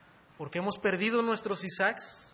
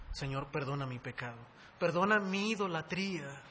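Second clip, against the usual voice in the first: sincere prayer. Acted. Preacher modelling a prayer to the Lord, sincere confession. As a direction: plead earnestly for forgiveness, voice rising slightly. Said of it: "tenemos que ser sinceros y decirle al Señor".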